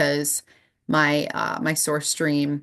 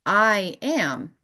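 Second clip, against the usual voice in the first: sudden realisation; 4 semitones higher than usual. Retold or imitated. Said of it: "I was like".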